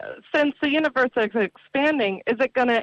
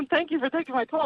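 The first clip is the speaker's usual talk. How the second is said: nervous laugh; 4 semitones higher, faster than usual. Real, not acted. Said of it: "sorry, I'm nervous".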